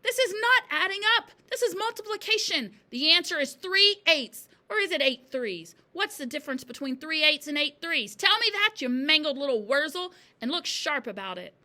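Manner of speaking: loud, high tirade; angry yelling. A narrator's reading. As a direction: berate the pupil at the top of your voice. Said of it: "yelled the Trunchbull".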